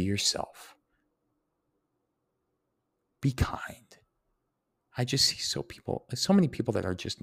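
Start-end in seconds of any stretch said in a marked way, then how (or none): 3.2-4.0 a gentle whispered reminder. Real, not acted. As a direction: hush it like a secret plea. Repeats the advice as a whisper.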